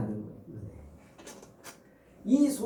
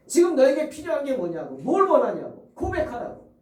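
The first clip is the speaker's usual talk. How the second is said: raised, louder, pressing the question; urgent preaching cry; 6 semitones higher, 6 dB louder than usual. Acted. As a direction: demand the confession with force. Preacher urges confession loudly. (힘주어 외치듯 다그치는 설교)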